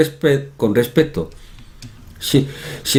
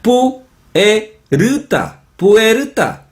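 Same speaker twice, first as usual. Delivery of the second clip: mock Korean accent, high, slow pu-e-ru-ta; 10 semitones higher, much slower than usual. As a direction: imitate Koreans splitting "puerta" into four syllables. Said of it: "los coreanos pronuncian". (acento coreano imitado, sílaba por sílaba)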